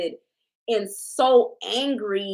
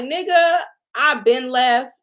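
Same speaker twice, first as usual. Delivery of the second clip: fed up; 3 semitones higher, 6 dB louder than usual. Retold or imitated. Sierra voiced, fed up.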